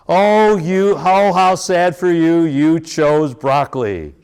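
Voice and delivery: mock sympathy. Mock sympathy for child's choice.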